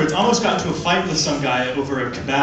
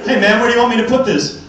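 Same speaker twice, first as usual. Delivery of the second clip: lightly voiced guy calling over; a hint of a workman asking where; mock mover asking; 7 semitones higher, 6 dB louder than usual. Comedian voicing a mover asking where to put things, slightly higher.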